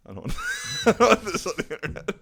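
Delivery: high, loud laughing protest; mock panic. Begging Mike not to post it, laughing mock-panic yell. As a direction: yelp it out in fake alarm.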